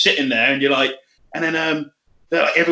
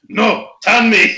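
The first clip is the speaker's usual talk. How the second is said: slow, drawn-out mock insistence; stubborn guy; 7 semitones higher, 5 dB louder, much slower than usual. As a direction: stretch it out stubbornly. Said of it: "He was like".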